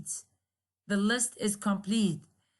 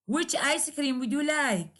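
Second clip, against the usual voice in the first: high "Which", tone lowered on "like"; falling question tune; 3 semitones higher than usual. Shown as a demonstration. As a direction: bring the tone down at the end on "like". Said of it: "lower down your tone".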